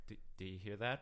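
soft, low, hesitant murmur; softest tone. Retold or imitated. Ray waking a sleeping partner at night, softest tone. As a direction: imitate a timid, hushed question. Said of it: "in the most softest tone".

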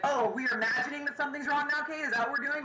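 mock her like she's being silly; mocking sarcasm. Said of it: "He's like".

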